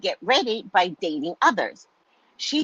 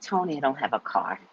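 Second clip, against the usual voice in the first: annoyed; 6 semitones lower, 6 dB quieter than usual. Retold or imitated. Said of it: "I get very annoyed easily".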